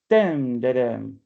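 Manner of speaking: "dem, da, dem" beats spoken out; scanning rhythm. Shown as a demonstration. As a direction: chant the stressed and unstressed beats. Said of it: "This is called a dactyl".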